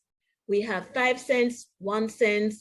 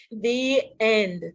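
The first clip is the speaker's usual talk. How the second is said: lively storybook read-aloud with voiced characters; animated picture-book narration; reading to children; slower than usual. A narrator's reading. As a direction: read it like bedtime story time for kids.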